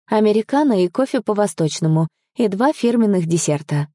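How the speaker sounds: lightly sweetened ordering voice; sugary politeness. Acted. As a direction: order with a cloying smile. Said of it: "приторно улыбаясь официантке".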